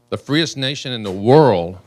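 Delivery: drawn out, every word weighed; slow down and let "the freest nation in the world" land; measured, deliberate emphasis; slow, emphatic. Real, not acted. Repeated rhetorical emphasis.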